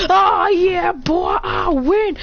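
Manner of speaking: high, loud, drawn-out gloating; victory crow. Acted. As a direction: crow the win in a high shout. Acted gloating after the attack.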